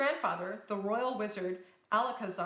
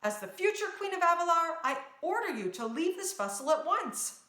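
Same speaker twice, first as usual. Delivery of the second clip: commanding princess voice; royal command; 7 semitones higher than usual. Acted. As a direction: command the creatures like a future queen. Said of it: "addressed the Noblins".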